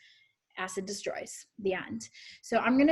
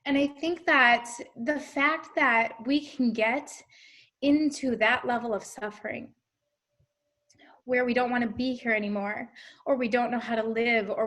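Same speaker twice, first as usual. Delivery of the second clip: speaking through tears; teary. Real, not acted. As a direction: voice thick with tears. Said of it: "Sorry, I got a little teary there".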